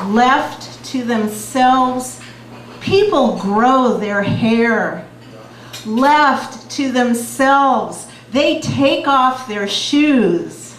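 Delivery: slow, emphatic chant-like poem reading; beat poetry. Acted. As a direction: hammer the refrain, slow and strong. Reads Revolutionary Letter poem.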